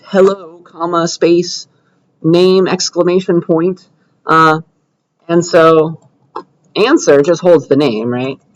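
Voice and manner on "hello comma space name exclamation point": spelled out slowly, word by word; teacher reading out code slowly; slow dictation. Shown as a demonstration. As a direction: dictate each piece slowly for the class. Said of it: "So we need to respond".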